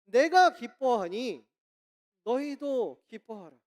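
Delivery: loud, slow, weighty proclamation; booming quoted command from Paul; proclaiming apostle. Retold or imitated. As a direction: declare it forcefully, drawing out each phrase. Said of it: "바울이 뭐라고 이야기를 하냐면요".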